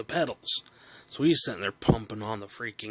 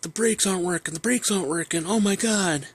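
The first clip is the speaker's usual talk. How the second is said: high, loud hammed-up panic; dad pretending the brakes have failed; mock alarm; 9 semitones higher, 5 dB louder than usual. Dad fakes brake failure.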